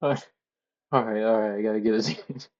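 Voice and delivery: fighting to regain composure mid-giggle; breathless real laughter, words barely getting out; laughing fit. Real, not acted. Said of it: "I gotta pull myself together".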